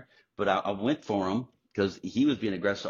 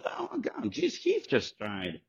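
breathy shock that drops into slow disbelief; hushed squeak sinking to a slow, stunned line; imitating stunned Toby; 12 semitones higher, 4 dB quieter, slower than usual. Toby reporting Heath's death.

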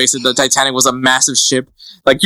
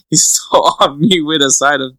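laughing. Real, not acted.

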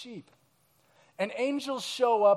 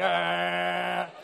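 imitating a panicked little cry; 3 semitones lower than usual. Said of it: "a little bit more panic and intensity".

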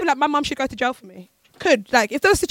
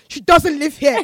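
laughing through a quote; 3 semitones higher, 6 dB louder, slower than usual. Retold or imitated. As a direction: giggle through the line. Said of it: "they said my name".

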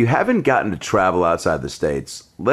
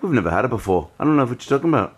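mock British accent; 3 semitones higher, faster than usual. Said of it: "it's a British guy talking about an Australian beer".

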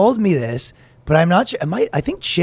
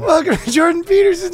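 announcer voice; 11 semitones higher than usual. Pretend. Mock show host.

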